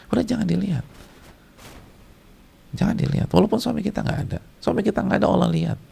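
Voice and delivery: high-pitched, held-up pleading warning; earnest admonition. Acted. Preacher warning wives that God still sees, high earnest admonition.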